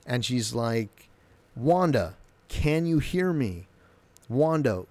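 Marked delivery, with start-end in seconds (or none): 1.6-4.8 slow, drawn-out hailing call; acting out a call over a bad link, words stretched; imitated calling out. Monica hailing Wanda through the drone, calling out.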